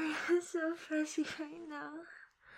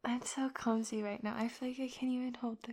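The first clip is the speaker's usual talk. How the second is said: whispering; 2 semitones lower than usual. Real, not acted. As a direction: whisper it, dazed. Limp, weak after climax.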